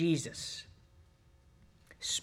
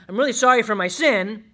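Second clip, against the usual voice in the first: emphatic first take; 3 semitones higher, 7 dB louder than usual. Shown as a demonstration. Preacher warning the congregation about fake repentance, loud and emphatic. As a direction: preach it hard, leaning on "not real" and "sorry". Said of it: "My repentance is not real if I say".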